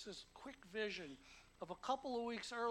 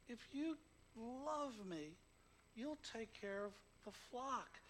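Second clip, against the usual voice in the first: gentle Jesus; 3 semitones higher, slower than usual. Retold or imitated. God speaking gently to Peter.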